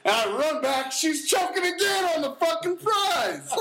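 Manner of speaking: loud laughing, can barely get the words out. Real, not acted. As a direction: crack up while telling it. Laughing while retelling the second choking.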